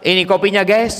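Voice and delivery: casual to a parent. Retold or imitated. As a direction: hand over the coffee like talking to a pal. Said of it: "Manggil orang tua". (anak menyodorkan kopi ke orang tua, gaya santai tak sopan)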